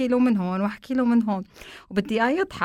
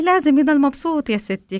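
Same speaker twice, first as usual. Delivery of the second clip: higher, louder insistent grandmother; grandma insisting; 6 semitones higher, 5 dB louder than usual. Retold or imitated. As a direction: press the point like a stubborn grandma. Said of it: "قالت لي".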